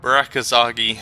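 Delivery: Turkish vendor. Acted. Voices Turkish street vendor.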